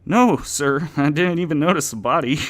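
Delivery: high, loud and hurried denial; unconvincing lie. Acted. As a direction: lie badly, over-eager. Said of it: "sounding quite unconvinced himself".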